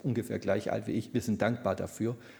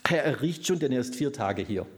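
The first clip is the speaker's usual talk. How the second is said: objection; 4 dB louder than usual. Retold or imitated. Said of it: "der Einwurf".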